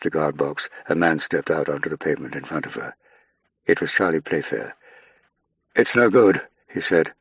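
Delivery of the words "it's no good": distressed outburst. Acted. Playfair arrives with bad news.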